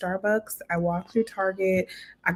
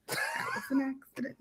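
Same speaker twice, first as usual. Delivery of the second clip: laughing; 7 semitones higher, 5 dB quieter than usual. Real, not acted. Repeats excuse while laughing.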